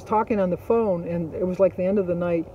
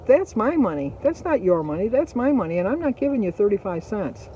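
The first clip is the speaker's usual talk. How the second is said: retold protest, higher on each claim of ownership; indignant insistence; 3 semitones higher than usual. Restaurant worker defending her tips from a customer, indignant insistence. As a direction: stake your claim firmly, mildly heated.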